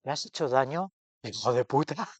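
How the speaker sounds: cheeky, blunt twist on the tender line; mock harsh mother. Friend retells her altered ending with mock bite. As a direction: fling the insult out with mock bite. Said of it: "Dice: "No, pero hubiera pe-, un pequeño matiz".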